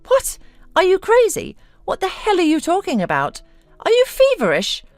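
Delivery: very high, indignant questions; shrieky incredulous outburst; outraged disbelief. A narrator's reading. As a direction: challenge him in shock, pitch soaring. Wife stunned that husband is leaving.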